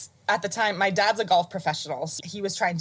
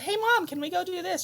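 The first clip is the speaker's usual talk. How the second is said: put-on kid asking mom; 12 semitones higher than usual.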